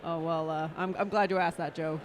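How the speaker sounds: cowboy voice. Pretend. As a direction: talk like a Texas cowboy. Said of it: "I don't know why you sound like a cowboy".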